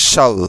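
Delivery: শাল said as one syllable, shaal; correct pronunciation demo. Shown as a demonstration. Teacher showing students the right sound, শাল as shaal. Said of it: "সঠিক উচ্চারণ হবে".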